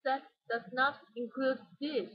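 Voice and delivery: weight on every word of "That does not include this"; emphasize all of "That does not include this"; every word stressed, from "That" to "this"; whole sentence stressed. Shown as a demonstration. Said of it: "she emphasized the whole sentence".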